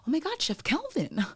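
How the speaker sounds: high, breathy gushing whisper; starstruck fan. Retold or imitated. Fan spotting a chef at the airport, starstruck. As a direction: imitate an excited fan gasping in recognition.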